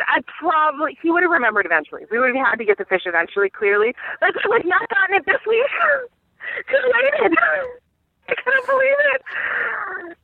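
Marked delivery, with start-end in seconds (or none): 4.2-10.2 much higher, laughing to the point of tears; laughing in disbelief. Real, not acted. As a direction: crack up at the absurdity. Laughing disbelief at own story.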